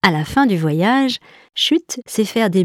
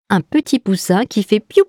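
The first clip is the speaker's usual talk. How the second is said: delighted; 6 semitones higher, 4 dB louder than usual. A narrator's reading. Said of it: "lui dit Jeanne en l'applaudissant".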